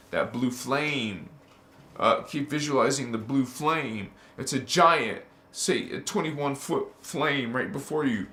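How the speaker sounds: lightly voiced meditation guide; guided visualization. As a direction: talk them step by step into the flame. Leads a blue flame visualization.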